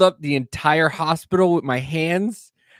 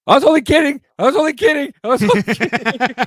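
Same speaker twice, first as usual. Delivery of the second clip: much higher and louder, frantic; panicked backpedal; 12 semitones higher, 7 dB louder than usual. Retold or imitated. Startled brother frantically backpedaling to his waking sister. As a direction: scramble to take it all back.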